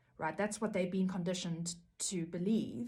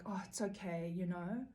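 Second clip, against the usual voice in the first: softer, condescending soothing voice; fake-gentle narcissist, much softer; mock soothing; 4 dB quieter than usual. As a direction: hush it like placating a child, but smug. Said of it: "And the narcissist will be like".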